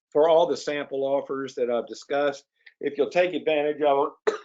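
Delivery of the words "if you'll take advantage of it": words broken by a real cough. Real, not acted. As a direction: speak through a cough. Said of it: "excuse me, I'm coughing".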